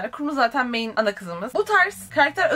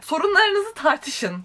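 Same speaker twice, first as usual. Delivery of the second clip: drawn-out, higher-pitched annoyance; annoyed; 5 semitones higher, much slower than usual. Real, not acted. Reader lecturing the book's characters to talk it out, annoyed. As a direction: spell it out slowly, nerves frayed. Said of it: "Çok sinirim bozuldu".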